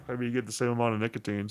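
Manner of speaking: accidental croaky monster voice. Real, not acted. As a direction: voice slips into a growly monster rasp. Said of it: "Sorry about the monster voice".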